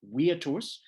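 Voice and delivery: "virtus" beginning with a W sound; Roman pronunciation. Shown as a demonstration. Lecturer reading the Latin word from the screen, Roman pronunciation. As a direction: say "virtus" the classical way, as "weer-toos". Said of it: "how they would have actually pronounced".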